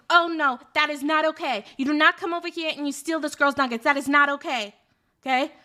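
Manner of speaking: lightly voiced tough girl telling him off; tough girl accent. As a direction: lay down the law, tough-girl style. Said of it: "the accent's accurate".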